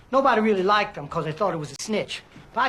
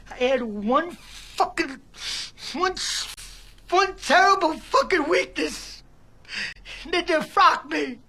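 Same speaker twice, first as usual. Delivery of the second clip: slow, higher, pained; anguished confession; 6 semitones higher, slower than usual. Acted. Defrocked priest admitting his weakness, slow pained anguish. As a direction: force out the shameful words.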